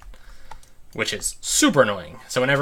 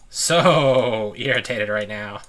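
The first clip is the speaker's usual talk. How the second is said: slow, drawn-out with a laugh; real amused irritation; laughing exasperation; 3 dB louder, much slower than usual. Real, not acted. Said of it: "slowed, laughing repeat".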